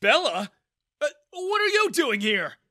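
high, loud startled question; surprised. Acted. Father caught out by his daughter, startled. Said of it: "Daniel asked in surprise".

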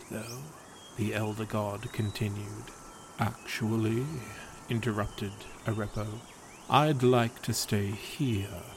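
calm, even storyteller read of a gentle fable; story narration. A narrator's reading. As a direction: tell it like a bedtime legend. Reads a fable aloud.

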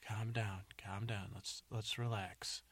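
soothing. Acted. Calming the injured man.

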